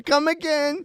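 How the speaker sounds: high, slow mock Asian shopkeeper; mock Asian accent. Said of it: "racist impressions".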